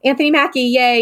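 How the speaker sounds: imitated fan's high little cheer; mild mock cheer. Seated fan clapping for Anthony Mackie, mildly cheering. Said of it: "we're sitting in our seats clapping".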